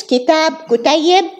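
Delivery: "kitab" then "kutayyib" with Arabic vowels; Arabic diminutive. Shown as a demonstration. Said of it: "you change vowels or you add a suffix".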